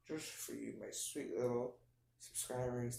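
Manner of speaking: soft, syrupy coo to the viewers; half-joking sugary sweetness; mock tender. Real, not acted. Vlogger cooing at his subscribers, softly and sugary. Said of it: "That was weird".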